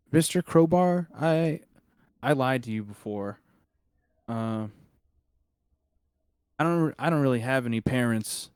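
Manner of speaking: hesitant boy close to tears, lightly acted; almost crying. Boy confesses he lied about having parents, mildly tearful. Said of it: "almost crying. You can see tears".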